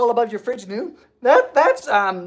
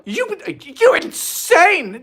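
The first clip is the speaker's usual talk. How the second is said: excited; 9 semitones higher, 4 dB louder, much slower than usual. Real, not acted. Shocked by donation.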